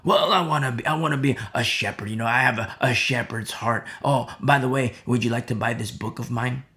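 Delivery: lightly voiced sales pitch; mock salesman pastor. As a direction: pastor slyly pitching his book to a churchgoer. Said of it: "You look at pastors today".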